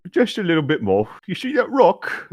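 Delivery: The speaker in character. Acted. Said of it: "Damien said".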